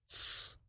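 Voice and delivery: a soft unvoiced hiss to hush her; sssh, quiet her down; shushing. Drunk Vlad hushes the indignant chairwoman with a shush. Hushing her, finger on lips.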